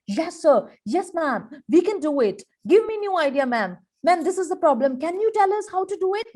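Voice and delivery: eager, lifted voice, keen to help; bright eager tone; enthusiastic. Shown as a demonstration. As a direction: sound like a keen team member. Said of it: "Always show enthusiasm".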